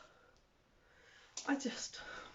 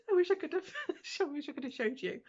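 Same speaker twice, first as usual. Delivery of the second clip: laughing; 7 semitones higher, faster than usual. Real, not acted. Laughing, out of breath.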